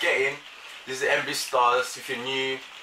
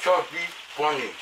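cheeks stuffed full. Real, not acted. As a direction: mouth crammed with marshmallows. Mouth packed with marshmallows.

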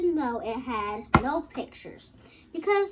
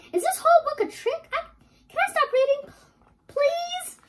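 pleading; 12 semitones higher, 4 dB louder than usual. Acted. Begging to stop reading.

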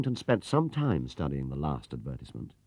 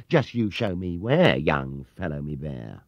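slow and condescending; slow mocking challenge; 3 semitones lower, 3 dB louder, slower than usual. Clerk challenging the bear, a hint of condescension. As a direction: dare him to prove it.

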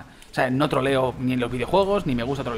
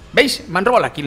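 indignant outburst; 5 semitones higher, 6 dB louder than usual. Real, not acted. Kill stolen in game.

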